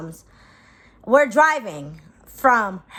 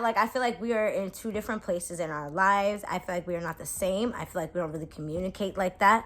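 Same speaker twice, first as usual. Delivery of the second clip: lower, softer, evenly listed reasons; retold careful explanation; 4 semitones lower, 7 dB quieter than usual. Explaining to him why they don't fit, soft careful letdown. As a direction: let him down softly, voice dropping away.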